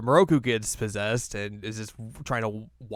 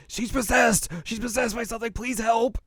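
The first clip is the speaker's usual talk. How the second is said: Moroku; 12 semitones higher than usual. Retold or imitated. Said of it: "then Moroku's like".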